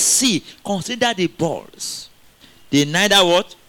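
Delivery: slow, drawn-out verse; scripture reading. Acted. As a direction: read the verse slowly, inviting the answer.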